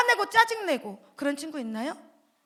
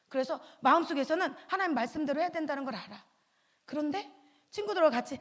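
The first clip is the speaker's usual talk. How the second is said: ordinary talk, nothing marked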